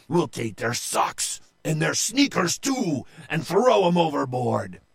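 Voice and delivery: emphatic, mounting battle boast; rousing pirate roar. Acted. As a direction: keep firing up the crew. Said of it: "he roared".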